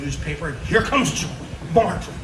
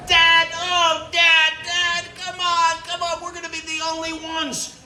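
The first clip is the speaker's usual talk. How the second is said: put-on very high kid voice, whining; child nagging the dad; begging kids; 12 semitones higher than usual. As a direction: plead like a kid afraid of being left out.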